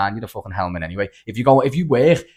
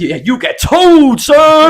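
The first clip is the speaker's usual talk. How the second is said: much higher and louder, slow, cracking up; laughing punchline; 11 dB louder, much slower than usual. Acted. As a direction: deliver the film line while cracking up. Punchline quote from a film.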